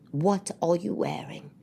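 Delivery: slow, soft, withering question; disdain. Retold or imitated. Husband as wife comes out in lingerie, imitated disdain. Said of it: "That immediate sound of disdain to his voice".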